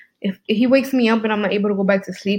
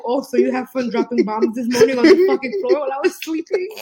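mock-cheery sarcastic complaint; teasing, sarcastic jab; 3 semitones higher than usual. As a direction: needle a partner with a sarcastic question. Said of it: "I'm just sarcastic".

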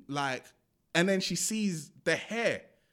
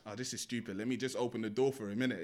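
lower, much softer voice; retold muttered aside; 4 semitones lower, 6 dB quieter, faster than usual. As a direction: say it low, as if to oneself. Retold character grumbles to herself.

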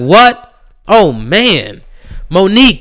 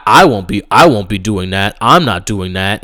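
low, dull voice of the quarterback; mock Dak; 9 semitones lower, 3 dB quieter than usual. Mocking Dak Prescott's anthem stance in low, dull voice. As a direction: drone it like a bored athlete dodging. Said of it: "and he said that".

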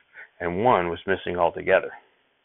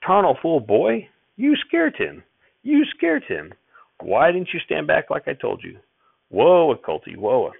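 much higher, louder furious yell; angry yelling; 8 semitones higher, 4 dB louder, slower than usual. A narrator's reading. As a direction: blast the boy with blame. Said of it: "Grandfather began yelling at me".

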